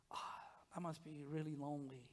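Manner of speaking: a soft whispered inner thought. Retold or imitated. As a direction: breathe it like a private thought. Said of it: "and you think".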